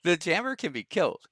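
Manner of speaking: high-pitched laughing talk. Real, not acted. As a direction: laugh through the words. Laughing through his point.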